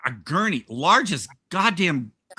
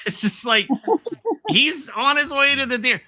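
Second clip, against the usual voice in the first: laughing; 9 semitones higher than usual. Real, not acted. Laughing while telling.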